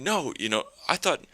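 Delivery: high mock wail of hurt; hurt woman. Woman telling him she expected them back together, high mock wail. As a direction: whine it like a jilted lover. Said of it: "And she's saying".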